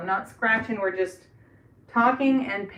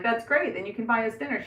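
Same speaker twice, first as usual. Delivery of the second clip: jokingly; 3 semitones higher than usual. Retold or imitated. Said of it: "jokingly, I'm like".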